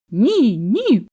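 emphatic little cry; shouting with all its might. A narrator's reading. Little hare shouting at the bear, insistent cry. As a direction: yell it as loud as a small hare can. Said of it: "крикнуло щосили зайча".

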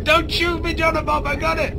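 high-pitched mock panicked plea; retold scream. Retelling how he begged his teammate, high mock panic. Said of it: "I was screaming".

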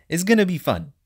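looking forward, punched up; upbeat anticipation. Real, not acted. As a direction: say it with confident cheer. Upbeat claim, then walked back.

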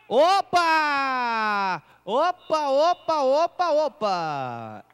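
sudden loud exclamation; startled cry at the fumble; surprised. Real, not acted. Fumble on the field.

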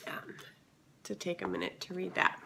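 raspy, scratchy throat. Real, not acted. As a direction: talk through a scratchy voice. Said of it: "I apologize for my scratchy voice".

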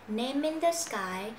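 "Name in" joined as nay-min, slowly; linked sounds. Shown as a demonstration. Teacher models linking for learners, "Name in" run together. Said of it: "Nối này".

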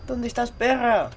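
slow taunt. Real, not acted. Taunting the monster slowly.

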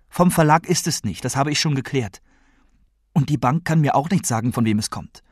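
lightly voiced grandmother, insistent; exasperated grandmother.

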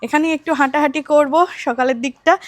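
talking with a toothbrush in mouth; while brushing teeth. Real, not acted. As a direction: speak around the toothbrush. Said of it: "brush করছি".

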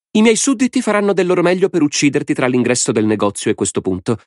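high, gleeful madman's voice; a mad lord savouring the game; Lord Alvin. A narrator's reading. (voce alta di signore folle e allegro)

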